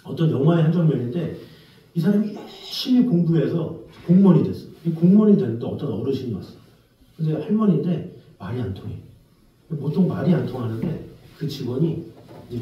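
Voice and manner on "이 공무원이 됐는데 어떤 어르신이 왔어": normal talking voice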